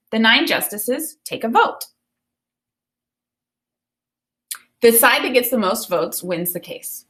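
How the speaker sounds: put-on clear, expressive reading of a children's book to the class; storybook read-aloud. Teacher reading a Ruth Bader Ginsburg picture book to students, expressive read-aloud. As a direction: read it like story time for kids.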